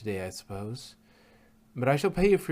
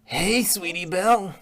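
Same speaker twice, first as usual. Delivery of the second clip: louder, slow drawn-out hey; excited greeting; 6 semitones higher, 6 dB louder, slower than usual. Acted. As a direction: call out the name gladly. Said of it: "exclaimed Scootaloo and Applebloom".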